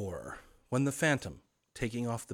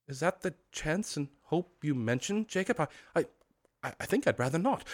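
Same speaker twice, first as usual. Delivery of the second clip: nervous stammering; 6 semitones higher than usual. Acted. Scrooge hesitates.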